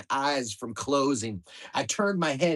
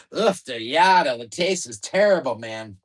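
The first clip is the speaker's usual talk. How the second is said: disgusted; 6 dB louder than usual. Acted. Disgusted at the jelly's taste.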